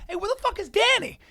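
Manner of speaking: high-pitched call across the room; insistent repeat. Retold or imitated. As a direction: ask it so nobody can ignore it. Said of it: "nobody answers".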